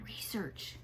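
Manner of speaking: whispered hushed word; low voice. A narrator's reading. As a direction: hush it, almost secret. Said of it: "she says in a low voice".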